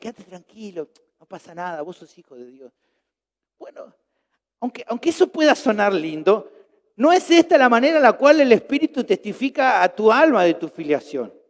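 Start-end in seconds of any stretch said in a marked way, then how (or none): 0.0-2.7 very quiet, soft, low little inner voice. Voicing the little inner voice that speaks to you, little inner voice. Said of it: "Como una vocecita que te dice".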